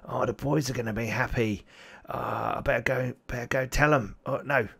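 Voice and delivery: lightly voiced greedy goblin; a hint of a gloating goblin slurping; goblinoidy voice. Goblin with the claw, lightly voiced greedy glee. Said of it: "the voice sounded, sort of goblinoidy".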